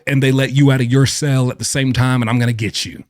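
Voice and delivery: a mild mock yell of prison threats; half-hearted tough-guy taunting through the door; mock inmate threats. Imitating an inmate threatening another through the door, mild mock yell. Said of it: "does yell out to another inmate".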